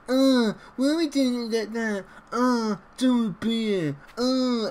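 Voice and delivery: high, whiny moaner, mocking the colleague; moaning office colleague. Mocking the negative office colleague with a high whine. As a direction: drag out a grumpy office whinge, high. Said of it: "that person that come in".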